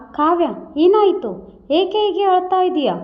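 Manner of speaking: a touch of panic, asking his crying wife; ಗಾಬರಿಯಿಂದ, ಸ್ವಲ್ಪ ಎತ್ತರದ ಧ್ವನಿಯಲ್ಲಿ; alarmed. Acted. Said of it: "Ravi ಗಾಬರಿಯಿಂದ".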